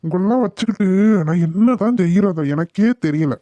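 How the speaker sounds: irritated scolding, mildly heated; acted anger. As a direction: grumble crossly at a family member. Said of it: "எதுக்கு இப்படி கோவப்படுறீங்க?".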